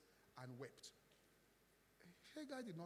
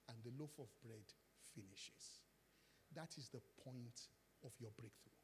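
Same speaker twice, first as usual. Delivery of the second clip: hushed intimate preaching; 3 semitones lower, 6 dB quieter than usual. Acted. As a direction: draw the congregation close. Preacher softens to intimate teaching.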